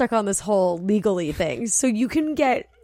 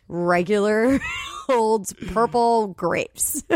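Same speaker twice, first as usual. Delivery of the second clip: laughing; much slower than usual. Real, not acted. Laughing over the grape question.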